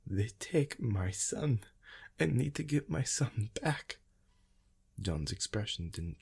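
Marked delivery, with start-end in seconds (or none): 0.1-4.0 slow, whispered, breaking; a mother sobbing for her son; mother begging John to return her son, weeping; tearful plea. A narrator's reading. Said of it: "tears pouring from her eyes".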